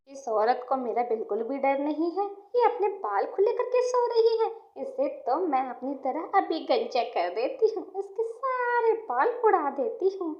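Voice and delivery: lightly voiced witch, pitch swooping upward; gloating witch. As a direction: gloat over your next victim. Witch gloats over sleeping victim.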